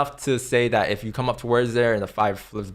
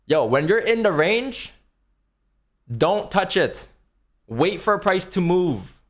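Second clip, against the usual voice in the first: raised, emphatic lecturing voice; yelling; 4 semitones higher than usual. Real, not acted. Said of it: "Why are you yelling?".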